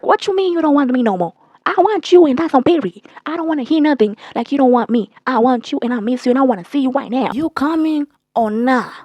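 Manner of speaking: retold indignant begging; insistent mock pleading. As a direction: demand them back, acting it out. Retelling his insistent pleading.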